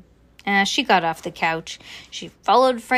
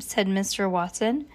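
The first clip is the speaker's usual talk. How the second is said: ordinary delivery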